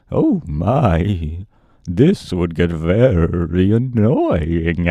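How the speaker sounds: neighing horsey voice, slow; horse voice try. Acted. Narrator trying out a voice for the sawhorse, slow neighing. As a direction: play the horse with a whinny. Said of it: "I need a voice for this horse".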